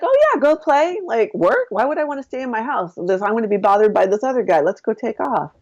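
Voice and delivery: high, breezy dismissal of work; carefree brush-off. Retold or imitated. Woman mocking her past self ditching work, breezy. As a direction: wave off responsibility like a kid skipping school.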